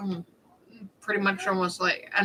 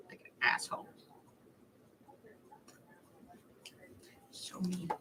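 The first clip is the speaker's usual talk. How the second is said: 1 whispered aside; 21 dB quieter than usual. Real, not acted.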